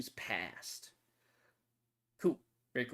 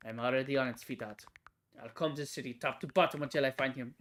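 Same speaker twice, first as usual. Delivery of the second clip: vengeful vow in a put-on French accent. Blue vowing revenge to a dead loved one, French accent. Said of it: "I'm just doing the accent to differentiate".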